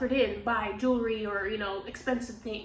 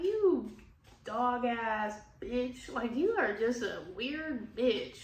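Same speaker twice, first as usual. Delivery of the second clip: slow, drawn-out mocking insult; slow scornful retold insult; contemptuous put-down; slower than usual. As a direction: drag out each word to belittle her. Retelling telling someone off.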